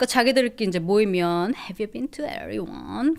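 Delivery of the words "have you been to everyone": put-on California girl speaking style. Imitating how California girls talk when they get together: California-girl speaking style. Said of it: "그 말투 알죠? 캘리걸 말투로".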